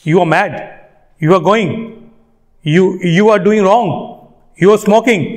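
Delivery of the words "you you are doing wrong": you are stretched slowly; drawn out you are. Shown as a demonstration. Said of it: "खींचने की जरूरत नहीं है". (you are खींचकर बोलना)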